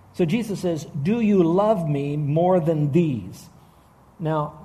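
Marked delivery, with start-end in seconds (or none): 1.0-3.5 measured, drawn-out quoted question; slow, deliberate question. Retold or imitated. Preacher quoting Jesus' question to Peter, slow and deliberate. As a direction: ask it slowly, word by word.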